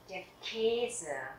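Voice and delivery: Käse with Ä said as a long E; long umlaut E. Shown as a demonstration. Teacher showing the long A umlaut, long-vowel demo. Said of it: "đây là âm A umlaut dài".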